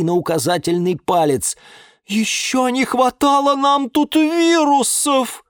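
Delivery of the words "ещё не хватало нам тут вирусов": high, loud, slow indignation; indignant. A narrator's reading. Liana objecting to viruses in the house, indignant. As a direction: protest it with outrage. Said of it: "возмутилась Лиана Диана".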